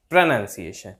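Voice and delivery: low प्रोनंसिएशन with 'nun' in the middle; correct pronunciation. Shown as a demonstration. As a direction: model प्रोनंसिएशन as pruh-NUN-siation. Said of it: "इसकी प्रोनंसिएशन ऐसे होगी". (बीच में 'नन', सही उच्चारण)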